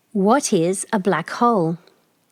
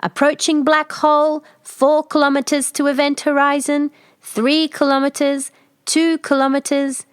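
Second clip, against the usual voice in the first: high, louder computer announcement; steady machine report; ship computer; 7 semitones higher, 3 dB louder than usual. Acted. Computer voice counts down.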